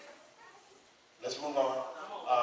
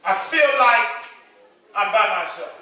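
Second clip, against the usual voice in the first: whining. Retold or imitated. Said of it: "Start whining".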